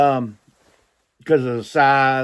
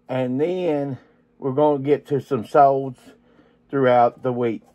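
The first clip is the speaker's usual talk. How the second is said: muffled voice from inside a box; box over head. Real, not acted. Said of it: "I can't keep my head inside a box".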